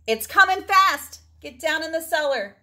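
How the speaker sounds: loud, high urgent shout; farmer shouting. A narrator's reading. Farmer shouting a warning to the animals. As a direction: yell the warning across the farm. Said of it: "the farmer shouting in the distance".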